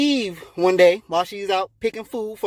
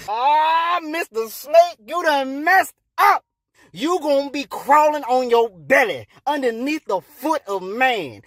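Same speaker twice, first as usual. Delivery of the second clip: raised-pitch, emphatic condemnation; angry cursing; 5 semitones higher, slower than usual. Acted. God curses the snake, angry. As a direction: lay down punishment with heavy emphasis.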